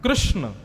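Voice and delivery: "कृष्ण" as one word with a joined sh-n ending; correct pronunciation. Shown as a demonstration. Preacher modelling pure speech, "कृष्ण" with its cluster intact. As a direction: model "कृष्ण" clearly, r sounded, cluster unbroken. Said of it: "उच्चारण भी शुद्ध होना चाहिए".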